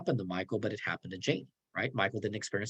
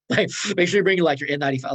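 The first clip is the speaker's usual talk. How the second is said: mock urging; 6 semitones higher, 7 dB louder, faster than usual. Mocking exaggerated request to Jody.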